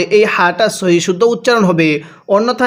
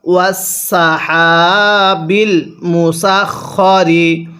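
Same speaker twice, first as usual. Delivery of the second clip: ওয়াসাহাবিল মুসাখরি chanted slowly with held vowels; slow recitation; much slower than usual. Shown as a demonstration. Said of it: "তাহলে". (ধীর তিলাওয়াতের সুরে)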